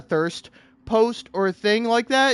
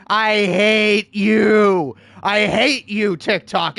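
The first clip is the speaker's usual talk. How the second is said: slow hateful growl; much slower than usual. Real, not acted. Ranting at TikTok, slow bitter hate. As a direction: drag out I hate you slow and heavy.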